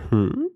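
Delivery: short pondering hum; questioning "hmm". Shown as a demonstration. Showing how he paused to think, pondering. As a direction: hum as if puzzling it out. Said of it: "I kinda did one of those".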